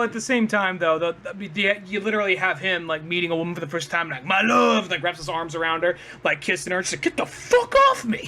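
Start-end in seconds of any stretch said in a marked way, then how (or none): 4.2-4.8 mock-amorous cry, louder and higher; smitten cartoon suitor. Skunk grabbing a woman he met. 7.0-8.3 high, loud cartoon shriek of protest; mock outraged shriek. Acts woman repelling the skunk.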